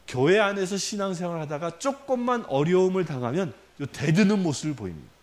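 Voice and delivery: ordinary talk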